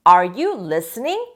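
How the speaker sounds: Are you listening? said very slowly with a rising end; slow model question. Shown as a demonstration. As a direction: spell out the question slowly for the class. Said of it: "teacher models the question".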